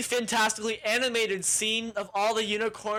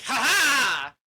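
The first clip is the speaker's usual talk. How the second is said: triumphant mock laugh; 5 semitones higher, 7 dB louder than usual. Wizard triumphs with magic.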